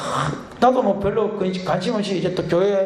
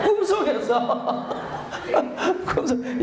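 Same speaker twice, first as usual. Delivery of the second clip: breaking up with laughter, higher; laughing; 6 semitones higher, much slower than usual. Real, not acted. Preacher joking with congregation about a dream, laughing. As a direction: laugh helplessly through the words, drawing them out. Preacher cracks up at own story.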